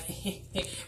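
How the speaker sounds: soft mock-eager little giggle. Reviewer mimics Norman eager for the old man, mock giggle. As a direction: imitate a quiet, giddy snicker. Imitating him being thirsty.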